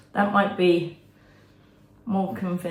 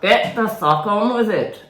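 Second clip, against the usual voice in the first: angry; 5 semitones higher, 6 dB louder than usual. Acted. Monkey shouting at Nina.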